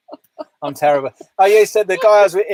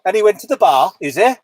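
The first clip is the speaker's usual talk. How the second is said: put-on Welsh accent. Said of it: "Six out of ten for the Welsh accent".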